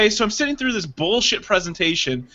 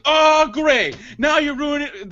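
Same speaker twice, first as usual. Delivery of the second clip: high, raised complaint; mock exasperation; 7 semitones higher than usual. Retelling his rebuke as the lady walks by, mock exasperated.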